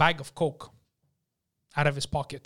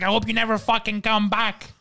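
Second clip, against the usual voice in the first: raised-pitch angry parting shot; snapping; 5 semitones higher than usual. Retold or imitated. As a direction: act out a waiter storming off. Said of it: "He snaps".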